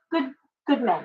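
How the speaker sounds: talking through hiccups; hiccuping between words. Real, not acted. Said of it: "I'm hiccuping".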